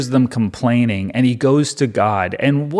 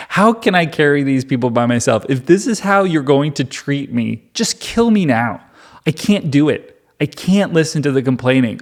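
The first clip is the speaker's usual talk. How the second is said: overdone exasperation at the end of one's rope; comically dramatic; 3 semitones higher than usual. Acted. Moses protests to God about the people, comically dramatic. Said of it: "this is comedically dramatic".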